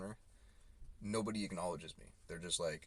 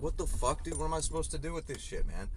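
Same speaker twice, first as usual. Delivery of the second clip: fast, higher exasperated outburst; retold angry outburst; 8 semitones higher, 3 dB louder than usual. Driver yelling after the order smashes, exasperated and fast. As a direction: replay the fury, quick and high. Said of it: "I was so fucking pissed".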